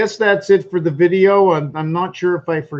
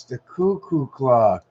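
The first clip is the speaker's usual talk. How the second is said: slow, drawn out; slower than usual. Shown as a demonstration.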